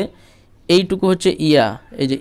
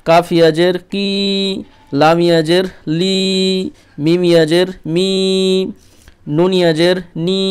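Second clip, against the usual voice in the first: syllable drill; 3 semitones higher than usual. Shown as a demonstration. Teacher drilling students through the Qaida letters, measured and deliberate. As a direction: pause after each pair as in a Qaida drill.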